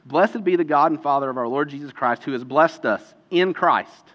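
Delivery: measured reading, pausing before "in Christ"; scripture reading. Real, not acted. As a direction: read the verse out to a congregation. Reads scripture aloud.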